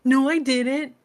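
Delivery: fake-innocent denial; mock denial. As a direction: brush it off in a put-on voice. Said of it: "And he's like".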